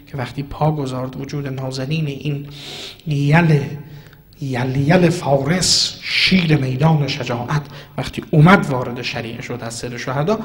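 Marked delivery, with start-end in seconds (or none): 3.1-7.6 loud, drawn-out exaltation of the hero; rising praise. Acted. Preacher praising the brave warrior to the mourners, loud and drawn out. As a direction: call out his titles with swelling force. Preacher extolling Abbas at the river.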